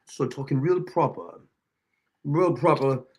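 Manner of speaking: lightly faked British accent, talking real proper; mock British accent. Host threatening to talk British, mock-proper British accent. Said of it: "start talking with a British accent".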